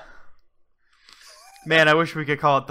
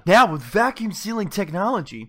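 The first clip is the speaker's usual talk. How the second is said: infomercial; 3 semitones higher than usual. Pretend. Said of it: "throughout the entire advertisement".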